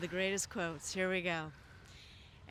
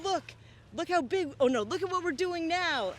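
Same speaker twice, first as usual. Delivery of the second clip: mock excited gambler; 8 semitones higher, 4 dB louder than usual. Acting out dice player.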